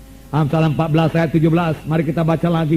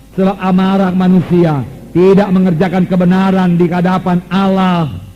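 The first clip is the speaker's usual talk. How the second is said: slow, raised reading of the verse; fervent scripture reading; 2 semitones higher than usual. Acted. Preacher proclaiming James to the congregation, fervent reading. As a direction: proclaim the verse slowly to the church.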